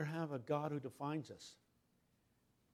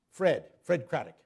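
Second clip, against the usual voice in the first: in a huff; 4 dB louder than usual. Retold or imitated. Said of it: "Did it in a huff".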